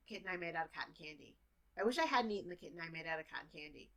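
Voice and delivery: fast, native speaker pace; native speaker speed. Shown as a demonstration. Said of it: "as a native speaker".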